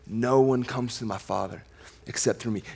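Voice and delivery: hushed, deliberate echo of the verse; quiet emphasis. Shown as a demonstration. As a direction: let it sink in quietly.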